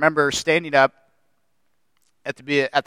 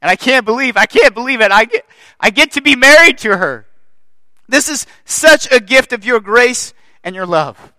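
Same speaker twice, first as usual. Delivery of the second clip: tender; 5 dB louder than usual. Retold or imitated. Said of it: "And I'm just thinking".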